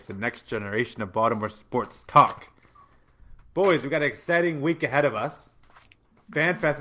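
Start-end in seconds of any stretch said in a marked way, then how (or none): 0.0-2.5 booming ring announcer welcome; grand entrance announcement. Acted.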